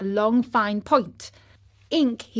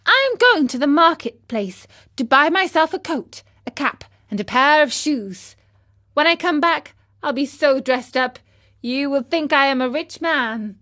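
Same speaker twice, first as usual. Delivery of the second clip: put-on eager, bright boy's voice, louder and higher; excited boy; 4 semitones higher, 5 dB louder than usual. Pinocchio tells his father he'll look rich, excitedly. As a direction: puppet boasting proudly of his plans. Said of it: "he said to his father".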